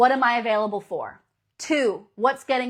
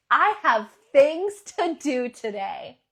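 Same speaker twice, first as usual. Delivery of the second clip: a touch of bright eagerness, slow and loud; eager morning voice; 2 semitones higher, 6 dB louder, slower than usual. Pretend. Coach modelling the mindset, slow eager delight. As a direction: savour each word like the day is a gift. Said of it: "in this state".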